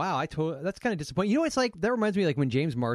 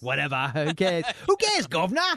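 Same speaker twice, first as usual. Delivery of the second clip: put-on British accent. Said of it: "You're like".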